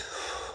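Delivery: soft tired sigh; weary sigh. Acted. Inko sighing at another transformation, weary. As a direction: let out a tired mother's sigh. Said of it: "Inko just sighs".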